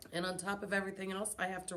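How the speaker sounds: words pushed through clenched teeth; through gritted teeth. Acted. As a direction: grit your teeth and grumble. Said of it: "said through gritted teeth".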